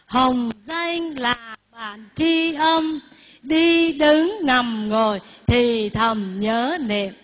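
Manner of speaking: slow recitation for others to repeat; measured call-and-repeat reading; recited verse. Shown as a demonstration. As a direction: draw out each word for the group. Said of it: "Chúng ta đọc lại hai câu".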